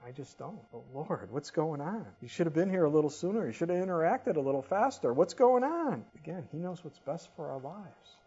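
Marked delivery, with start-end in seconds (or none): 0.7-2.1 puzzled plea to God, held back; mild questioning plea. Acted. Acts out his complaint to God. 2.2-5.1 quick, slightly raised reproach; mock-impatient grumbling to God; acted complaint. Acts out his complaint to God. 5.1-6.0 high, loud frustrated question; exasperated outcry. Acted. Complaint to God reaches its peak.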